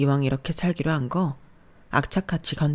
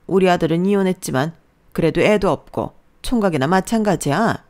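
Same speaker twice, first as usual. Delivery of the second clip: a louder, bossy mother-in-law lecturing her daughter-in-law; mother-in-law putting the new bride in her place, a touch louder; scolding mother-in-law; 3 semitones higher, 6 dB louder than usual. Acted. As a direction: lay down the law like a domineering mother-in-law. Narrator voices the mother-in-law.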